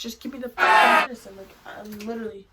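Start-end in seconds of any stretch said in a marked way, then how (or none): 0.0-1.4 urgent, fast retold demand; half-yelled demand for relief; retold screaming.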